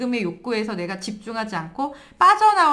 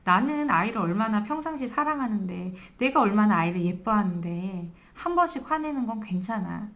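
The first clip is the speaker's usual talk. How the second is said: self-reassuring. Acted. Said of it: "이런 얘기를 들으면 마음 편안해지죠".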